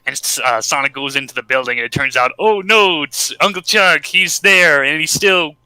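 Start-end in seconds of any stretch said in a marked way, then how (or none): 2.4-5.6 higher-pitched pretend dismay; mock shock. Podcaster revealing Uncle Chuck's fate, in mock shock. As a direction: play up the plot twist with alarm.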